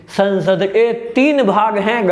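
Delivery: slow, drawn-out emphatic declaration; emphatic teacher's cry. Real, not acted. Teacher hammering the three parts of Parliament into students, emphatic cry. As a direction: drill it in slowly, as if straining to get through. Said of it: "गला फाड़ फाड़ के चिल्ला रहा हूँ यार".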